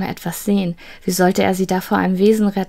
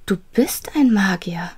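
amazed whisper. Acted. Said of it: "rief sie".

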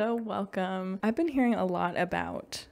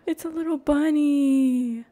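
louder, slowed-down gush of delight; delighted squeal; 7 semitones higher, 10 dB louder, slower than usual. Real, not acted. Gamer spotting a little bunny, loud delighted gush. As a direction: squeal at how cute it is.

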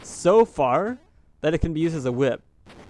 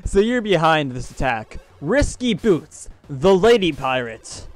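dramatic reading; slower than usual. Shown as a demonstration. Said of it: "this scrolling text is great".

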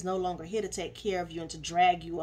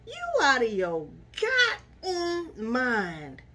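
imitating Chris; 2 semitones higher, much slower than usual. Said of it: "And Chris was like".

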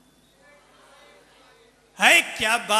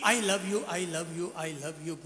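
fading echo; 4 semitones lower, 6 dB quieter, much slower than usual. Acted. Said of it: "जंगल में वापस गूंज हुई".

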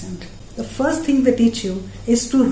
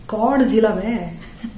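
slow, drawn-out Hindi-dialect question; a rough street-tough regional Hindi accent; slow regional Hindi taunt; slower than usual. Shown as a demonstration. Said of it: "some regional accent".

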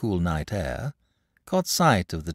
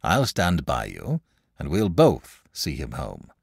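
low, steady promise; deep-set, dependable tone; reassuring; 7 semitones lower than usual. A narrator's reading. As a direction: comfort the child with calm assurance. Saint comforts the crying boy.

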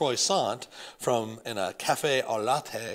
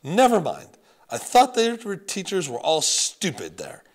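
higher, louder French grandmother waving it off; thick French accent; 6 semitones higher, 7 dB louder than usual. Acted. Grandmother calling the teachers stupid, French accent. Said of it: "The way she pronounced stupid".

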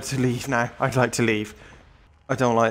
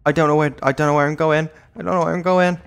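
frantic panic; 3 semitones higher, 6 dB louder, much faster than usual. Real, not acted. Fleeing lost.

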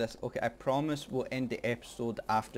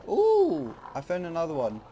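high delighted squeal; thrilled discovery, pitched up; excited; 6 semitones higher, 7 dB louder than usual. Real, not acted. Finds another treasure.

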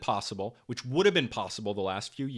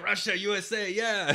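mock cheer; 6 semitones higher than usual. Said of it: "We're like".

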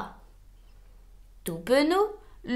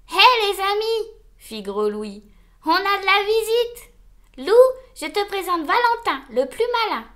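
high, loud cheerful giant; jolly big wolf; 6 semitones higher, 4 dB louder than usual. Acted. Gros Louis presents his gang to Wolf, jolly and proud. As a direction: introduce your friends with big jolly pride.

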